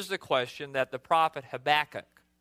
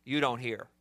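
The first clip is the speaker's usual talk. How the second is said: accusing, lower, softer; quietly accusing God; 4 semitones lower, 3 dB quieter than usual. Shown as a demonstration. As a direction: point the finger with the words. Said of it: "that's accusational".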